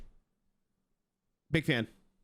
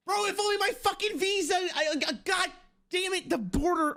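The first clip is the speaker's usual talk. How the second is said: real frustration; 13 semitones higher than usual. Real, not acted. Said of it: "I'm so mad".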